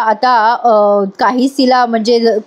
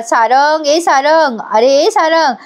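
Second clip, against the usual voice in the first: higher, stretched name-calling, only mildly raised; imitated calling out; 3 semitones higher, slower than usual. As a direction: act out summoning someone from another room. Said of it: "आता इकडनं रणदिवेबाई ओरडत असतात". (हाक मारण्याची लांबवलेली नक्कल)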